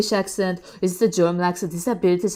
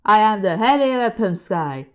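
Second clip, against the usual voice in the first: Heavy Weapons Guy; 5 dB louder than usual. Acted. Quotes a game character's famous line.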